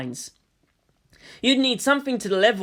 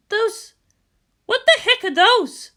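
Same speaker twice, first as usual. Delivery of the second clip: higher, startled commander; puzzled surprise; 6 dB louder than usual. Acted. Misato spotting the warhounds, surprised and higher. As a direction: stare at the odd machines.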